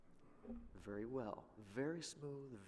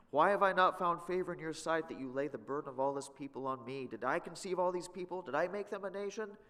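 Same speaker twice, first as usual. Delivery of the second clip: raised, exasperated pleading; frustrated Moses; 4 semitones higher, 5 dB louder than usual. Acted. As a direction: complain to God, fed up. Moses complains to God.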